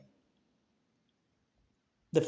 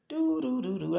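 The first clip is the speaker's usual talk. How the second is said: nagging do do; 5 semitones higher, 4 dB quieter than usual. Retold or imitated. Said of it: "I ain't hearing nothing but do".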